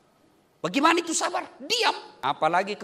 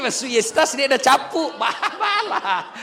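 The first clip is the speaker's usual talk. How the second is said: laughing quote; 3 semitones higher, 6 dB louder than usual. Retold or imitated. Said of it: "cek dia punya".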